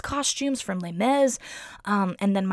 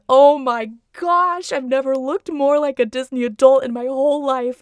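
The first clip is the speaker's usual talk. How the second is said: half laughing, half weeping at herself; laugh-crying; 6 semitones higher, 9 dB louder than usual. Retold or imitated. To herself while weeping in the theater, weepy laugh-cry. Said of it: "I just start crying".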